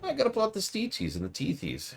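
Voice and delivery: put-on high, muttering old seamstress, sing-song; croaky old seamstress. Player asks who she is, old seamstress answers in high mutter. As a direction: play Marta as a batty crone. Voices Marta.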